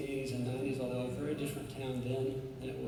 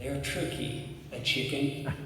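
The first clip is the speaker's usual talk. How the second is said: put-on young boy quote; slower than usual. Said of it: "he says".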